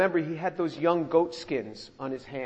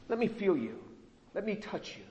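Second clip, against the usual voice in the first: softly suspicious; 9 dB quieter than usual. Acted. Voices suspicious blind Isaac reaching out.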